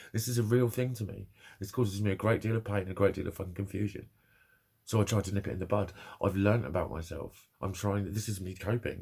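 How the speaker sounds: usual speaking voice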